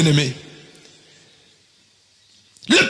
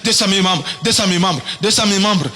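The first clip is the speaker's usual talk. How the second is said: low mantra-like repeating; meditative repetition; 3 semitones lower than usual. Acted. Pastor showing a follower how to meditate, low repetitive chant. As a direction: recite it over and over like a mantra, pitched down. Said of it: "Commence à dire, ... Médite dessus".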